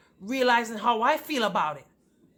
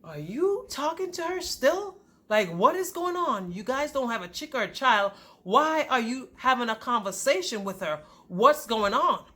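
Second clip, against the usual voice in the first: pitched-up, incredulous questioning; indignant confrontation; 3 semitones higher than usual. Retold or imitated. Wife confronting husband about his ex, indignant. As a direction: demand answers, punching the key words.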